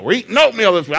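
fed-up dad shouting orders; mock exasperated dad. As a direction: bark it like a fed-up father in the cereal aisle. Dad snapping at kids in aisle.

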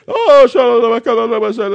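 high, loud ecstatic tongues; lifted, loud prayer in tongues; praying in tongues. Retold or imitated. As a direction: cry out in tongues on the hotel floor. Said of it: "praying in the Holy Ghost".

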